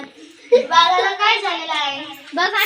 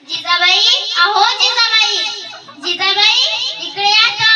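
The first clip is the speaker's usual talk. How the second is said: louder, higher call across the yard; 4 semitones higher, 5 dB louder than usual. Acted. Savitri calls her friend Jijabai over, loud call.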